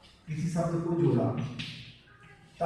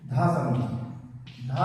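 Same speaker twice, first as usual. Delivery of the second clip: slow syllable demo; 4 semitones lower, much slower than usual. Shown as a demonstration. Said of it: "जैसे कि अगर हम".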